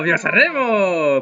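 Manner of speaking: put-on lighter Spanish accent. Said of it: "Pourquoi je prends l'accent espagnol".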